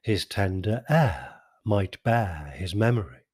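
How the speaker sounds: slow, measured sonnet recital; a poet reciting his sonnet; poem reading. Acted. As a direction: read it like verse, savouring each line. Reads the sonnet aloud.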